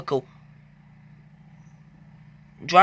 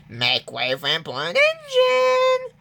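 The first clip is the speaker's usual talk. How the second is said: pompous boast. Acted. James showing off paint.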